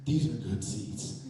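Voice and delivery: low, slow, deadpan usher voice. Retold or imitated. Usher checks the torn tickets, low and slow. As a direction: say it slowly and low, impressed. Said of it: "she says".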